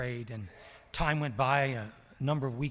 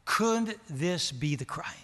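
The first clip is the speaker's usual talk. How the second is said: slow, gentle, non-aggressive asking; respectful question; 4 semitones higher, 4 dB louder, slower than usual. Retold or imitated. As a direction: ask it lovingly, slowly, without pressure. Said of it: "she asked the question very respectfully ... non-aggressively, lovingly".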